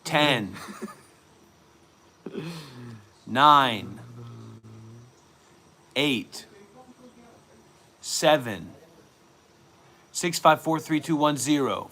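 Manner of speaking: mock ominous countdown; menacing countdown. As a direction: count down like a villain. Threatening countdown.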